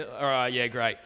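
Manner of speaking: lightly put-on matey sign-off; tradie-chat voice. Husband ending call with tradie, mock matey voice. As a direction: wrap up the call in mock bloke talk. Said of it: "You drop your voice an octave".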